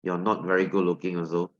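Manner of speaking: put-on a girl unimpressed by a plain guy, flat shrug. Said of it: "They are like".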